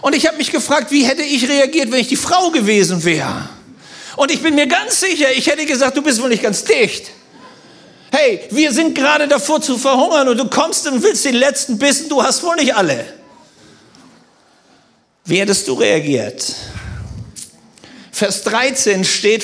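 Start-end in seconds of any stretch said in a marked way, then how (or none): 6.0-13.1 pitched-up, exasperated retort; lightly acted outrage, voice raised in pitch; mock indignation. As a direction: tell someone off in hammed-up disbelief. Imagines his indignant reply to Elia.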